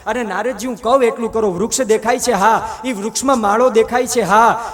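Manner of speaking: commanding lord. Acted. God quizzes Narad about the tree, firm and loud.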